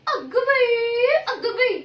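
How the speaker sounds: drawn-out stunned cry of disbelief; a long gasping exclamation of shock; exaggerated dismay; mock shock.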